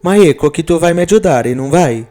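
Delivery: lightly voiced anxious Italian woman; a bit apprehensive. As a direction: ask for his help a little uneasily. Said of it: "um pouco apreensiva".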